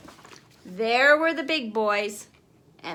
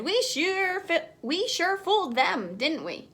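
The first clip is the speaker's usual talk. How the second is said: laughing; 7 semitones higher than usual. A narrator's reading. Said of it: "Archie laughed and said".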